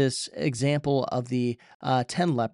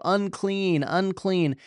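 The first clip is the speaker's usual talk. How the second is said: higher, mild mock call of unclean; lepers' warning cry; 5 semitones higher, slower than usual. Preacher voicing lepers warning passers-by, a mild called-out cry. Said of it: "to go and to shout".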